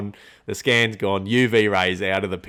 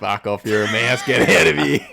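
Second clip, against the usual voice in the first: rising to a louder shout at the end; mock shooing the mouse; 4 dB louder than usual. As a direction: chase the mouse out, half laughing.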